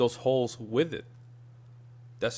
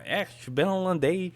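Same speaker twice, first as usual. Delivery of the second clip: higher-pitched, twangy mock German; German with twang; 7 semitones higher than usual. Shown as a demonstration. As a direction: put an exaggerated twang on the German. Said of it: "don't wanna sound like a twang".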